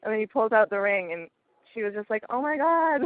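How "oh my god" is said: higher-pitched retold astonishment; lost for words. Sister seeing the ring, lost for words. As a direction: imitate her stunned reaction. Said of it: "didn't know what to say either".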